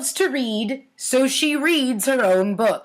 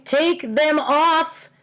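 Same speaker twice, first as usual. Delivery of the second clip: slow, drawn-out dog voice; dog talking; 2 semitones higher, much slower than usual. Retold or imitated. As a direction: drag each word out like a dog in pain. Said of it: "There's a dog saying".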